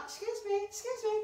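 high, sassy excuse me. Real, not acted. Dismissing an ugly shirt, sassy. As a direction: brush it off with attitude.

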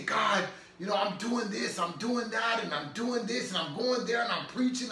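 imitating his own frustrated prayer; retold frustration. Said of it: "frustrated and mad".

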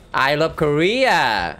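I love Korea drawn out very slowly in a mock Japanese accent; exaggerated mock Japanese-accented I love Korea. Shown as a demonstration. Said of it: "아무리 봐도".

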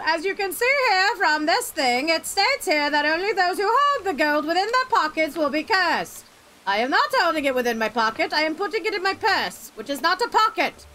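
lawyer voice. Acted. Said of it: "What was that fucking voice?".

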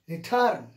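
"Return" said as re-TURN; teacher's model "Return", second syllable strong; stress on second syllable. Shown as a demonstration. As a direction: lean firmly on "-turn" in "Return". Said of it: "accent is given on the second syllable".

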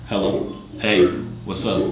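filtered deep voice effect; voice changer. Shown as a demonstration. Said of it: "Oh, that's too deep".

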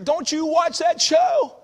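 slow, loud, high preacher warning; imitated preacher. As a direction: shout it like an old-time preacher. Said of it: "My preacher".

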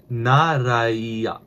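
"naraiya" stretched out slowly with a falling end; drawn-out demonstration. Shown as a demonstration. Learner sounding out the word for "okay then", "naraiya" drawn out. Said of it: "Okay then is".

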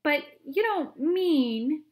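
high, loud, slow disbelief; panicked shouting old man; frightened shout. A narrator's reading. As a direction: shout in growing alarm. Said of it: "shouted Grandpa Joe".

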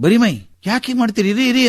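alarmed stop. Retold or imitated. Officer stops old man undressing.

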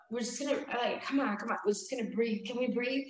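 soft, soothing coaxing; calming. Retold or imitated. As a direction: talk a panicking friend down. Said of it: "So I was like".

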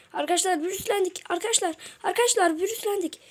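fast, high alarmed announcement. Real, not acted. Gamer telling viewers they got infected, alarmed. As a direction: rush it out in alarm.

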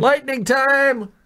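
slow, high, loud hype; hype announcement. Real, not acted. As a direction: stretch it out like an announcer. About to drink the shot.

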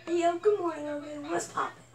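hyped vlogger greeting; pumped-up channel intro; YouTuber intro voice. Pretend. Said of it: "That's what I'm doing".

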